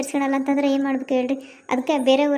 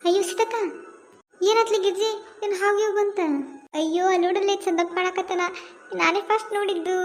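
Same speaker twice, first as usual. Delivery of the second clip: excited exclaim; 5 semitones higher than usual. Acted. Women exclaim on seeing Chandappa.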